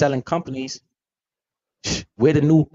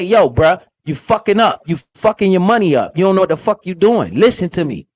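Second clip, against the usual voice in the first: louder and higher, calling a friend out hard; blunt tough talk; 3 semitones higher, 4 dB louder than usual. Pretend. Host voicing a friend who scolds a careless spender, loud and blunt. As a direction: get in his face about his money. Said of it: "You gotta talk to him like that".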